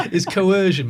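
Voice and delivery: coercion punched loud with a falling tune; stress on coercion. Real, not acted. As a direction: lean hard on coercion. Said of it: "My word".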